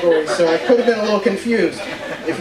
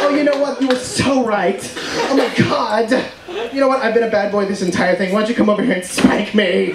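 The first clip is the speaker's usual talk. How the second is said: campy ref flirting. Retold or imitated. Ref flirting with the fouled player, lightly campy. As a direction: tease the player like a camp referee.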